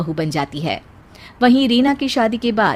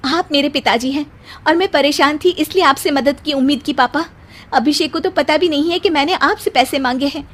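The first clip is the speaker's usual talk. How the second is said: hurt anger; 5 semitones higher than usual. Acted. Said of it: "Shivani को पिता की बात पर गुस्सा आ जाता है".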